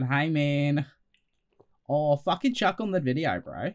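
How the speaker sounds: Australian accent imitation. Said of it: "Australian accent voice that you all do".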